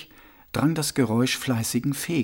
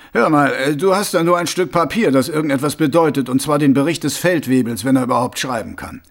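louder, pressing argument to the captain; impatient retort; 2 semitones higher, 5 dB louder than usual. Acted. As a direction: argue back forcefully, rattling off the end. Mumm argues back at the captain. (ungeduldiger, lauter Widerspruch)

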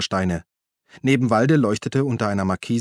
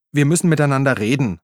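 Uli's voice, higher and a little louder; Uli, pleading; 4 semitones higher, 4 dB louder, faster than usual. Acted. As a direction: call after him, placating. Uli insists on talking. (Uli ruft beschwichtigend hinterher, höhere Stimme)

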